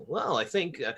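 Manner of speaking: slow, stiff announcer read; newscaster voice. Retold or imitated. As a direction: read it like a TV anchor. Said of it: "why are you talking like a newscaster".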